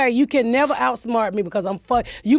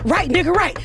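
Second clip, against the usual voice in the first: higher, lively imitating of a hyped young writer; excited cheer; 7 semitones higher than usual. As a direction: cheer it like good news.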